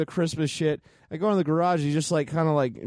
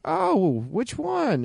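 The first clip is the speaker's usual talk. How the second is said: high, perky mom asking a quick question; imitating mom; 6 semitones higher, much slower than usual. Son imitating his mom asking about the book, high chirpy voice. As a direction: chirp it like an eager mother.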